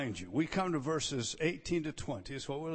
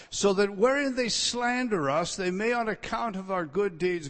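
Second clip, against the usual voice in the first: preaching loud; 3 semitones higher, 5 dB louder than usual. Real, not acted. Preaching emphasis on scripture.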